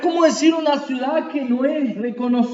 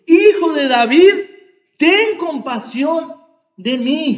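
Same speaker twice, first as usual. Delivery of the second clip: blind man shouting; 3 semitones higher, slower than usual. Retold or imitated. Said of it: "Él estaba gritando".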